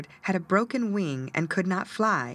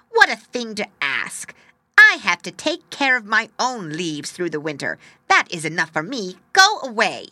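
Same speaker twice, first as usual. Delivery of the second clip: loud, scornful tree voice; haughty, loud birch tree; 2 semitones higher, 8 dB louder than usual. Acted. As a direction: scold the little bird loudly and haughtily. Birch scolding the bird.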